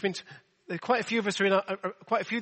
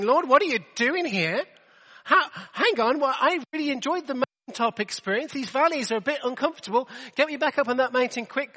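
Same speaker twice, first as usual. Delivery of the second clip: louder and higher, exasperated plea; half-acted yell, demanding to be taken back up; mock scream at God; 6 semitones higher, 4 dB louder than usual. Preacher retelling his complaint to God in the valley, mock yelling. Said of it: "I'm screaming at God saying".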